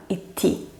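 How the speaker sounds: "iti" with a held t closure; long T. Shown as a demonstration. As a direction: pause on the t of "iti" before releasing. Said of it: "como una T larga".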